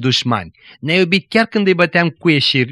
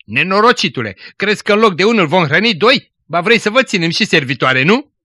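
angry judge's wife; 5 semitones higher than usual. Acted. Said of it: "judecătoreasa a intervenit supărată".

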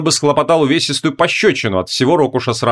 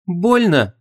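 whispered fear; 5 semitones higher than usual. A narrator's reading. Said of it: "испуганно прошептала".

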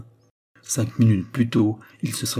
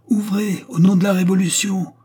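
much higher, loud outside shout; shouted again, louder; 10 semitones higher, 6 dB louder than usual. A narrator's reading. The voice outside repeats its order, higher and fiercer. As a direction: hammer the order from beyond the door. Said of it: "répéta la voix du dehors".

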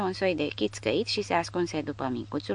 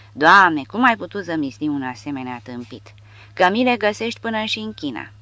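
exasperated; 4 dB louder than usual. Acted. Legionnaire exasperated at idiot.

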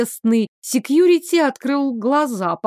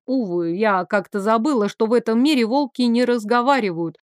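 usual speaking voice

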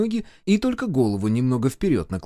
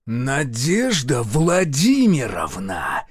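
growled name; much slower than usual. A narrator's reading. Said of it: "Настоящий звериный рык".

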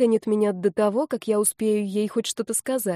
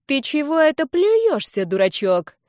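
mock-tender; 6 semitones higher, 5 dB louder than usual. A narrator's reading. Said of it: "ласково спросила она".

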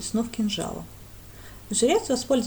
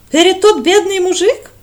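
broken-speech foreigner; 10 semitones higher, 14 dB louder than usual. Acted. Foreigner's broken Russian query.

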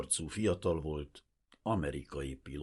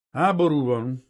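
almost apologetic; 8 semitones higher, 11 dB louder than usual. A narrator's reading. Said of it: "szinte bocsánatkérően".

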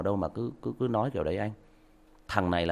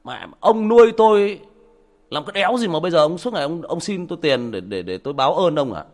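higher and louder, resentful; angry grown son; 6 semitones higher, 8 dB louder than usual. Retold or imitated. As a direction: lash out like a fed-up son. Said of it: "nó bảo".

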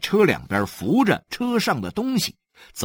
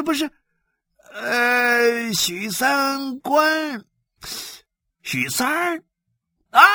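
much higher, strained voice; puzzled blood chief; 13 semitones higher, 3 dB louder than usual. Acted. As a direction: draw out the name as he tries to remember. Li recognizing the name.

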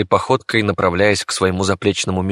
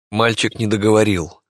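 ordinary delivery

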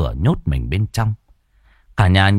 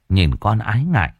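usual speaking voice

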